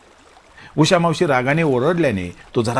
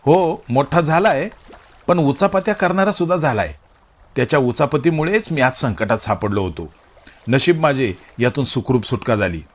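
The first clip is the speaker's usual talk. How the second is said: mild sarcastic remark; 2 semitones higher than usual. Acted. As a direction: needle him with a sly jab. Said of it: "बाबा खोचकपणे बोलले".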